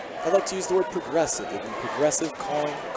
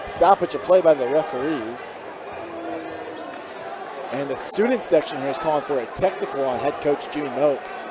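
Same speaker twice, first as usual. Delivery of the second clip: steady broadcast call, lifting on each drive; live play-by-play; 4 dB louder than usual. Real, not acted. Commentator calling the game for listeners at home, play-by-play.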